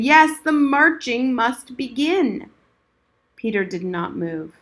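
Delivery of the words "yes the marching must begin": slow, louder repeated command; firm old soldier. Acted. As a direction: insist with weight on Yes. Old soldier repeats, more forceful.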